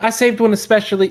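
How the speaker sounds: put-on Southern accent laid on far too thick. Retrying the character's line to a king: too Southern accent. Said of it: "It's Southern and too Southern".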